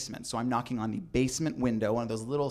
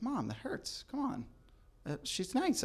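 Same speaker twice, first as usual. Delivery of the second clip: put-on whiny teen plea; 10 semitones higher, 8 dB quieter than usual. Teen pleading with mom.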